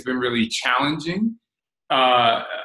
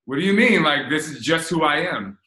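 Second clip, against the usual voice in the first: upset protest; 4 semitones higher than usual. Retold or imitated. Imitating husband upset at being called bored, mildly indignant. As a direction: push back a bit defensively. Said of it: "he would get upset because he would say".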